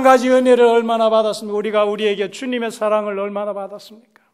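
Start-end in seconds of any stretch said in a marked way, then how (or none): none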